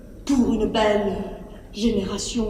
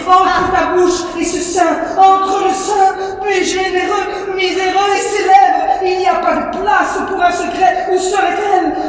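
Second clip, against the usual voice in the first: heated shout; 3 semitones higher than usual. Acted. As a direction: hammer each phrase at her. Dispute nourrice et fille. (nourrice qui s'emporte contre la fille)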